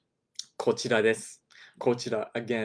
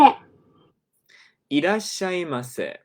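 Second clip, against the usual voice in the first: a lightly raised clerk-style welcome; imitating store clerk; 8 semitones higher, 7 dB louder than usual. Shown as a demonstration. Teacher demonstrating the clerk greeting, lightly imitated. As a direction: echo the clerk's greeting with a touch of her lilt. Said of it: "This is our typical store clerk greeting".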